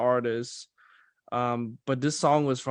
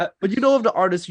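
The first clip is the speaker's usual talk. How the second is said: laughing; 8 semitones higher, 10 dB louder, much faster than usual. Real, not acted. Laughing, hurried.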